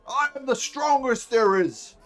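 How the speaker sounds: loud, slow, booming hobgoblin boast; boastful hobgoblin strongman. Acted. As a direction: puff up and brag like a huge hobgoblin. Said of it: "He says".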